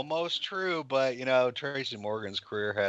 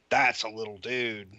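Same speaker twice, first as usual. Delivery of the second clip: 1 awed, emphatic. Retold or imitated. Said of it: "when you see him in person".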